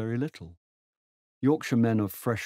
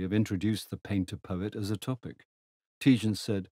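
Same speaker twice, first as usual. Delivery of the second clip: usual speaking voice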